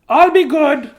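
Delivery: high, loud chirpy chick; chicken voice. Acted. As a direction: promise eagerly in a squeaky chick voice. Chick promises.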